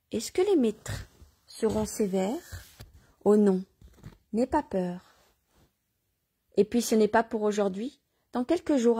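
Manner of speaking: measured reading aloud with light dialogue; story narration. Acted. Reader telling listeners of Joachim, story narration. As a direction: read the tale out, lightly voicing questions.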